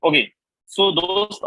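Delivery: ordinary talk, nothing marked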